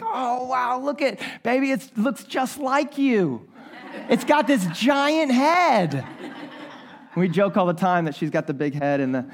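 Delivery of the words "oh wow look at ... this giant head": laughing tease. Retold or imitated. Teasing wife about baby's head.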